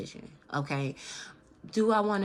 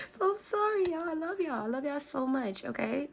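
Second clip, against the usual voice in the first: choked up; 8 semitones higher than usual. Real, not acted. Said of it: "Don't make me emotional".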